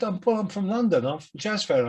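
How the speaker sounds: cheery London Cockney greeting, played up; Cockney accent. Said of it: "a young kid with a Cockney accent".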